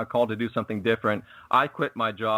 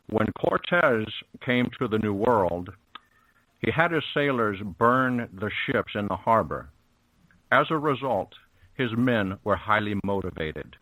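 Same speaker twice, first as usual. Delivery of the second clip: Sean Connery impression. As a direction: lightly do the stern Scottish sub captain, taking your time. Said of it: "I'll do my best Sean Connery impersonation".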